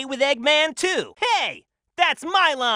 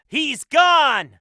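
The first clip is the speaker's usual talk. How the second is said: startled shout; 4 semitones higher, 5 dB louder than usual. Acted. Sudden alarm in battle.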